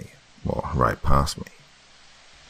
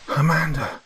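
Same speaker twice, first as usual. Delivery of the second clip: husband yelling toward the scream; 10 semitones higher than usual. A narrator's reading. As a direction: yell her name while running. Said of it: "I yelled".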